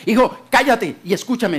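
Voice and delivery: acted stern father silencing his son; a touch of paternal sharpness; stern command. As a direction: cut in firmly with an order. Father cuts off protesting son.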